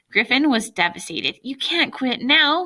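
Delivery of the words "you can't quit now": high, slow pleading moan; drawn-out desperate moan. A narrator's reading. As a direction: moan it out, begging him not to give up. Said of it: "he moaned".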